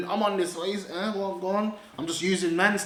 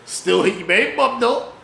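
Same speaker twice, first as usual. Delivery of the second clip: louder, cocky repeat; louder punchline; 5 dB louder than usual. Acted. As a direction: say it proudly out loud.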